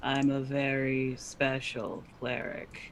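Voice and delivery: soft, flat, expressionless deadpan, very drawn out. A cleric character answers a doubtful companion's question, deadpan. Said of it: "as deadpan as possible".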